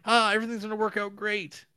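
high, loud giddy voice; hammed-up relief; mock happy crowd. Mocking everyone's happy reaction.

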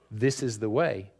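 level and cold, no inflection; a touch of Mandalorian conviction; hard, cold determination. Shown as a demonstration. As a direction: say it flat like a Mandalorian creed. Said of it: "They say it with hard, cold determination".

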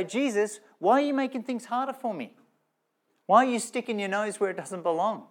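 high-pitched, mock-exasperated protest to Jesus; acted exasperated complaint. Believer complaining to Jesus about meddling, mock exasperation.

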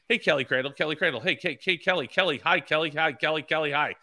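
pestering, rapid-fire hellos; insistent greeting. Retold or imitated. Eager racer greeting a reporter walking past, insistent. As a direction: call out repeatedly for her attention, pitched a bit up. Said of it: "in that tone of voice, that loud".

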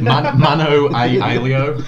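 slow, loud laughing. Real, not acted. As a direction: drag it out laughing. Laughing mock duel phrase.

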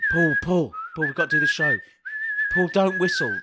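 urgent calling. Acted. Calling partner before the show.

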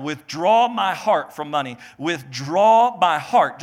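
slow, punch withdraw; emphatic withdraw. Shown as a demonstration. Preacher dictating to the congregation, stressing withdraw. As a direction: drill the phrase in. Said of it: "write this down".

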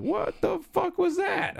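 high, slow, stretched-out disbelief; shocked exclamation. Retold or imitated. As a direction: blurt it out, freaked out. Shocked at friend's open eyes.

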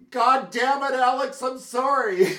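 high, loud exasperated yell into the phone; retold angry outburst. Venting at the phone guy, loud angry outburst. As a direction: bark it out, then catch yourself and apologize. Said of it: "I just railed at him".

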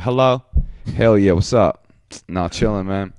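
put-on casual Black accent, greeting a friend. Answering a buddy's call in an affected Black accent. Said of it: "I affected a black accent".

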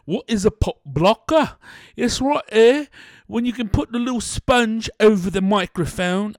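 playful put-on Cockney; mock Cockney chat; Cockney accent. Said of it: "working on my Cockney accent".

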